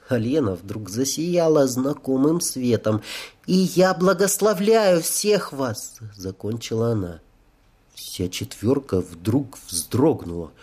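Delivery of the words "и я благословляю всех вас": put-on high, slow girlish blessing; angel's blessing. A narrator's reading. Angel blesses all four men, high slow solemn voice.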